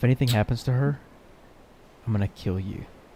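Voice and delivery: quiet, hushed, close-up delivery. A player's character threatens someone during a tabletop game, quietly, right in his face. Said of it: "right in his face, kind of quietly".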